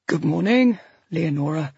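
a lightly voiced gentle doctor; doctor greets the tearful patient softly; soft, pitying. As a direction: soothe her like a fragile patient. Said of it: "His voice is soft, pitying".

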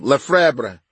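"Lefebvre" as luh-FREB-ruh, falling at the end; attempted pronunciation. Real, not acted. Narrator asking the assistant about the name, saying luh-FREB-ruh. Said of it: "I just want the actual pronunciation".

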